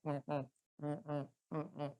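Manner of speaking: soft closed-mouth hums like garbled words; muffled nasal murmur. Shown as a demonstration. Teacher showing voice heard through fluid, muffled nasal hums. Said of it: "ang nadidinig mo parang ngongo".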